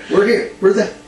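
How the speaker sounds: high-pitched joking echo; Ric Flair. Retold or imitated. Host echoes co-host's wrestler impression, playful mimicry. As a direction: chime in with the mock wrestler voice. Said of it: "And Flair's like".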